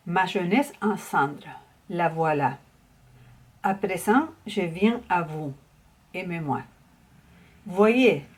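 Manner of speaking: measured poetry reading, phrase by phrase with pauses; poem recitation. Acted. Teacher reciting a favourite Yves Boisvert poem for viewers, measured recitation. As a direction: recite each line deliberately, letting the line ends settle.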